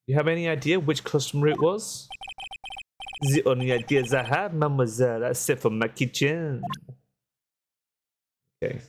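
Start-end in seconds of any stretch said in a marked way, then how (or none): 3.2-6.6 lightly put-on French accent, café owner voice. Café owner telling the lawyer what happened, light French accent. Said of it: "I hate doing the accent".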